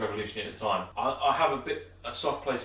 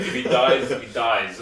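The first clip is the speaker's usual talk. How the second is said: Ivan Drago impression; 6 dB louder, much slower than usual. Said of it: "as Ivan Drago would say".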